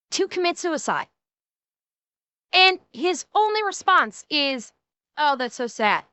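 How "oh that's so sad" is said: imitating an unmoved "so sad" reaction; understated imitation of indifferent sympathy; mock offhand sympathy. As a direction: toss it off as token sympathy, mildly mocking. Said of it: "In that tone of voice".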